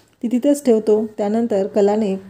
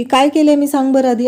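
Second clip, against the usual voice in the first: mild acted yell, higher and louder; retold yelling; 3 semitones higher, 4 dB louder than usual. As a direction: demand an answer, half in storyteller's voice. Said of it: "अद्वैत कलावरती ओरडतो". (थोडं चढ्या आवाजात ओरडल्याची नक्कल)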